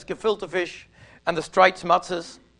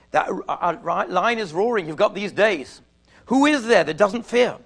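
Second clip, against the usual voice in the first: louder, impassioned sermon voice; preacher driving home the coming Day of Judgment, louder; preaching; 4 dB louder than usual. Acted. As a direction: build the fire of the sermon. Rising fervour of the sermon.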